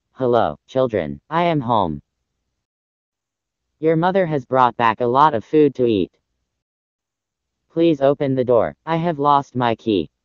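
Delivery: very low big bad wolf voice; deep voice. A narrator's reading. Wolf at the door pretends to be mother goat, deep voice. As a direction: drop deep, posing as mother. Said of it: "He said in his deep voice".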